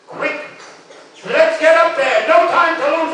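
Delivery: high, loud rallying cry; urgent call. Acted. Hero rallies himself with no time to lose, urgent cry.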